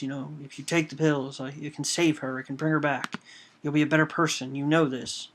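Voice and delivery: retold fury. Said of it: "Bishop is furious with him".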